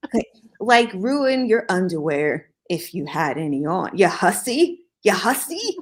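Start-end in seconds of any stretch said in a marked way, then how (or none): 4.0-5.8 high, mocking sing-song; teasing. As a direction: tease her playfully. Teasing the listener.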